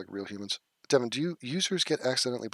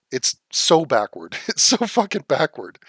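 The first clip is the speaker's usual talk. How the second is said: laughing disbelief; 4 semitones higher, 8 dB louder than usual. Real, not acted. Exasperated rant, laughing.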